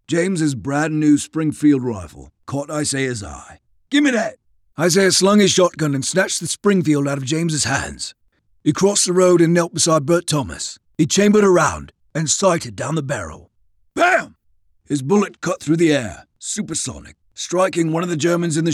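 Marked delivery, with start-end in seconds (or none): 3.9-4.4 quick high-pitched demand; urgent demand. A narrator's reading. Snatching a rifle from another man. 13.9-14.4 sudden high-pitched bang; imitated gunshot. A narrator's reading. Imitates the rifle shot.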